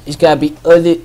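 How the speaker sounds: mock Boston accent, loose. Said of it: "I'm trying to put on a Boston accent now".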